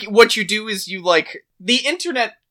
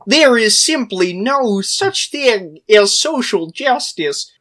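Kermit the Frog. Pretend. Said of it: "can you do a Kermit the Frog voice".

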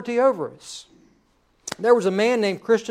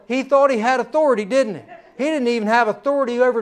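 amused, chuckling aside; higher and laughing as he teases the governor; 4 semitones higher, 3 dB louder, faster than usual. Real, not acted. Pastor laughing at the governor's comeuppance. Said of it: "I loved it".

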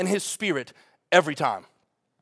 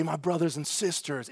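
softer, tender address; gentle; 3 semitones lower, 9 dB quieter than usual. Shown as a demonstration. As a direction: say it with compassion. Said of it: "It's compassionate. It's gentle".

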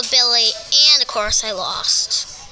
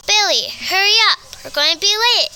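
mock scream; 6 semitones higher, much faster than usual. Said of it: "I screamed".

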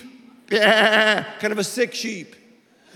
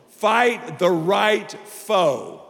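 slow emphatic; much slower than usual. Shown as a demonstration. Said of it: "Can't believe I said that".

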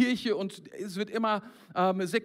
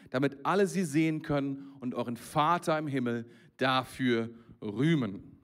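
scripture reading. Acted. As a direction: read the verses with weight, unhurried. Reads scripture passage.

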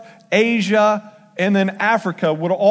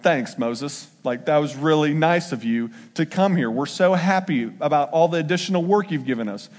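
sarcastic; 5 semitones lower than usual. Acted. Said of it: "They're mad".

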